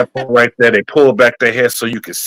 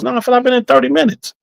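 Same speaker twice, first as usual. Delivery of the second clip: mock disbelief; 12 semitones higher, faster than usual. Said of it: "They said".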